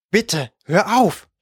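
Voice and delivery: langsam, gepresst vor Schmerz; unter Schmerzen hervorgestoßen. A narrator's reading. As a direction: jedes Wort gegen den Schmerz herauspressen. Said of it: "stieß er hervor". (gequält und gepresst)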